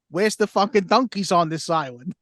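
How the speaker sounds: mock-aggressive Boston twang; aggressive Boston accent. Co-host imitates what Leo never says, mock-aggressive Boston accent. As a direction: play a brash Bostonian. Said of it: "hearing him aggressively say".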